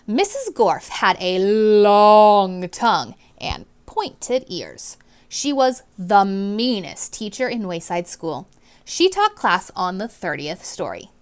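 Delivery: clear, expressive read-aloud to a class; storybook reading voice; reading to children. A narrator's reading. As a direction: read it out like a teacher sharing a book. Teacher narrating chapter to class.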